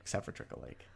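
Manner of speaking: low, soft, breathy aside; whispered echo. Real, not acted. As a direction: echo it under your breath. Echoing the correction dryly.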